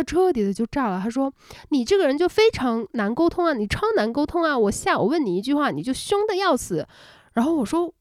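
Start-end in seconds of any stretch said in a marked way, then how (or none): 1.7-6.9 mock exploding complaint. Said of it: "这女生这时候就炸了".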